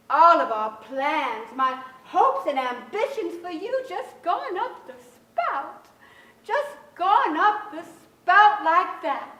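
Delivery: slow, grieving mother; bitter lament. Acted. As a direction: drag out each word in bitter disappointment. Mother laments lost tuition and hopes.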